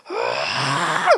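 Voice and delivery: comic gasp of dismay; mock gasp. Husband seeing ice cream on his shirt, mock gasp. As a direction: imitate a horrified gasp. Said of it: "and he's like".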